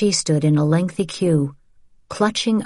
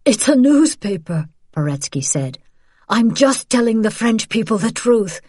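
desperate pleading; 6 semitones higher, 3 dB louder than usual. Acted. Accused teacher pleads with Gestapo.

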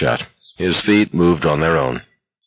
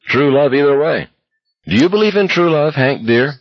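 mock romantic; 8 semitones higher than usual. McVree mocking romantic tease.

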